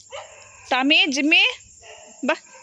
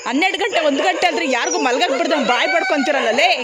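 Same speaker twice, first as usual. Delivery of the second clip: louder scolding with a half laugh; scolding the dogs; 4 dB louder than usual. Real, not acted. Man scolding noisy dogs for waking everyone, annoyed loud scold. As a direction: tell them off for barking at midnight.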